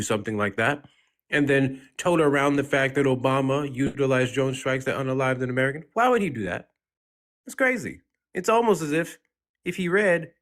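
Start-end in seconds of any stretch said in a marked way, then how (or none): 5.9-10.3 exasperated. Real, not acted. Exasperated rant.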